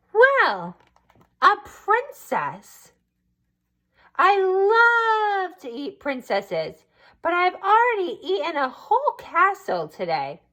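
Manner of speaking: a fussy, pompous dragon turning her away. Acted. Dragon to princess at his door, high and pompous. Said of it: "The dragon ... said".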